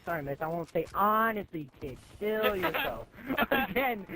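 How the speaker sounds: giggling through a mock-sorry quote to the teacher; fake-sorry line, laughing; cheeky laughing apology.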